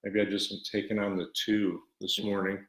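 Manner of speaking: breathless, talking between breaths; winded from hurrying in. Real, not acted. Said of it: "I'm out of breath".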